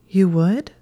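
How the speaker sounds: high, eager question; hopeful surprise. Acted. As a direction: lift it with sudden hope. Her heart leapt.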